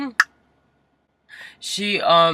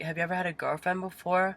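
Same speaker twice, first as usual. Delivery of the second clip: higher, prying mom voice; imitated mom; 5 semitones higher, 5 dB quieter than usual. Mom quizzing child about past relationships, imitated mom. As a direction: lightly mimic mom's questioning.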